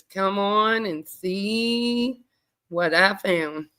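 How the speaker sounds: slow, teasing sassy drawl. Real, not acted. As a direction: draw it out with sass. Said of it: "I'm so sassy sometimes".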